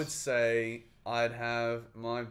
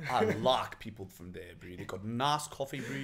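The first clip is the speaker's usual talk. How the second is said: put-on South African accent; 3 dB quieter than usual. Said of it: "Oh, South African".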